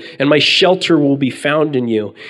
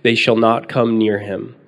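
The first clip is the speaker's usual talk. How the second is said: scripture reading. Acted. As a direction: read the verses like a preacher at the pulpit. Reads the psalm aloud.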